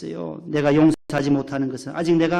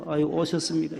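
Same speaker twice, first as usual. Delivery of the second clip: sullen greeting. Shown as a demonstration. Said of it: "시무룩하게 인상 쓰면서".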